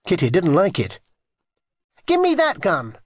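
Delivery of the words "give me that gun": put-on high, demanding child; indignant childish command; bossy order. A narrator's reading. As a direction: order it crossly, pitched high. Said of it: "she ordered".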